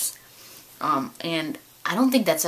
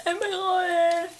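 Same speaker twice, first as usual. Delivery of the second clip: high, slow excited exclaim; light up at the news; 13 semitones higher, slower than usual. Retold or imitated. Hearing the girlfriend's store sells it, excited.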